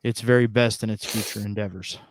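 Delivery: measured, deadpan press-release voice; mock official statement. Co-host announces neck snapping's release, mock official. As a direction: read it out like a formal company notice.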